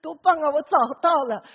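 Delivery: boasting. Retold or imitated. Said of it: "一直跟人家夸".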